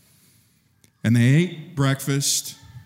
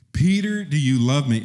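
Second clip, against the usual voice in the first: calling out Peter; 3 semitones higher, 4 dB louder than usual. Acted. Jesus asking third time.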